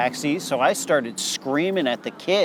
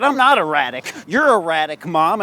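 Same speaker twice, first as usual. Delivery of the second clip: angry retort; 2 semitones higher, 5 dB louder than usual. Retold or imitated. Angry reply to worried parents.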